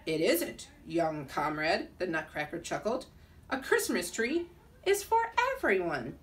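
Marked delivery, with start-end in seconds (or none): 0.1-1.9 put-on lower, slow mild Russian accent; a lightly Russian chuckling Nutcracker. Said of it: "spoke in a Russian accent". 3.5-6.2 put-on Russian accent. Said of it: "spoke in a Russian accent".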